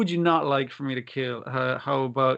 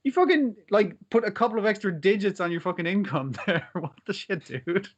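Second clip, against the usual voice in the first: higher, half-joking belligerent rant; mock belligerent; 5 semitones higher than usual. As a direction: retell a drunk friend's angry outburst, hammed up a little. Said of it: "pretty belligerent about it".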